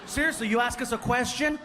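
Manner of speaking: ordinary talk, nothing marked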